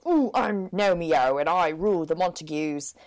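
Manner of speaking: a hint of swaggering hunk; rugged gnome hero. Teller voices buff Nomeo announcing himself, mock rugged hero. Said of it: "He's like".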